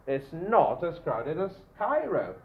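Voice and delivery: "not" given weight in a slow sentence; slowly, leaning on "not"; measured delivery with a firm "not"; stress on NOT. Shown as a demonstration. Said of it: "I want to emphasize".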